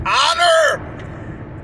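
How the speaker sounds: a drawn-out slow shout of "Your Honor"; shouted plea. Acted. Speaker pleading with an imagined judge, slow shout. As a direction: stretch it out and call out to the judge.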